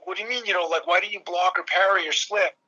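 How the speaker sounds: high, incredulous questioning; retold bafflement. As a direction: act out a baffled coach quizzing a student.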